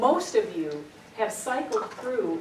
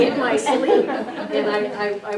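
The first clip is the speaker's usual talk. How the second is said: laughing; 9 dB louder, slower than usual. Real, not acted. Laughing while recalling crying.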